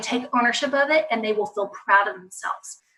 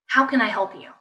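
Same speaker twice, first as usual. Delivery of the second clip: gentle offer of help. Shown as a demonstration. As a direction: ask it calmly, without pressure. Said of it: "Just be like".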